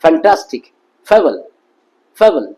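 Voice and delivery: "ফ্যান্টাস্টিক" and "ফেবল" starting on an English f; airy f to open "ফেবল", lips apart; open-lipped f. Shown as a demonstration. Teacher modelling the F sound, open-lipped f. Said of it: "এরকম উচ্চারণ হবে".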